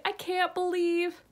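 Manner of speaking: indignant reader ranting; disbelieving rant. Retold or imitated. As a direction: shout your shock at the plot.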